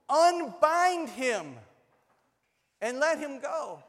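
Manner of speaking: loud, high, drawn-out proclamation; ringing command. Acted. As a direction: stretch the order out with authority. Jesus commands the people.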